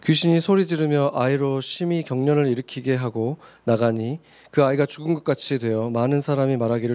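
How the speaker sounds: measured, even-toned Bible reading; formal recitation of scripture. Acted. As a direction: read the verses out evenly to the congregation. Reads scripture aloud in turns.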